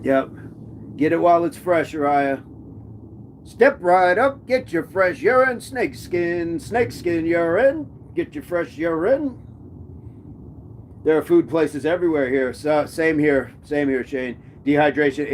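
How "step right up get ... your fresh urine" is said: carnival barker. Acted. Hawking urine like carnival barker.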